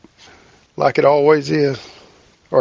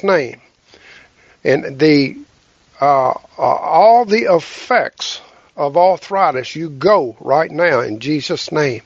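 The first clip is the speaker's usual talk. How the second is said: healing prayer. Acted.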